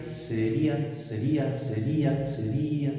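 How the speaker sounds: "sería" repeated with the í stressed and opened: se-RÍ-a. Shown as a demonstration. Teacher drilling students on the stressed í, se-RÍ-a. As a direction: keep hitting the í in "sería" each time. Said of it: "si yo lo pronuncio sería".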